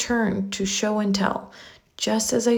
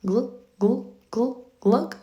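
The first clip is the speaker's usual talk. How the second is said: mouthed fish sounds; 3 semitones higher, slower than usual. Acted. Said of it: "he mouths".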